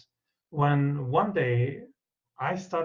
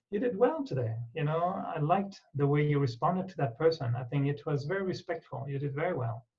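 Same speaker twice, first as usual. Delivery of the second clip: gentle praise. Shown as a demonstration. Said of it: "tell myself every day".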